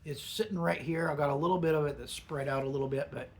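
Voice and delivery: speaking around a pinch of dip; lip full of dip. Real, not acted. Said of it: "even with me talking".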